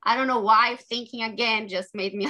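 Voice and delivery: choked up, laughing through tears; a nervous laugh that wobbles into tears; emotional. Real, not acted. Author reading her brothers' story gets emotional, laughing through tears. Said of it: "I just got a little bit emotional".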